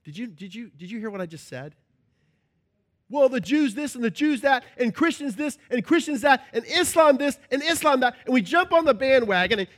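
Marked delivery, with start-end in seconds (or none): 3.1-8.2 mocking gossip. Mocking complainers.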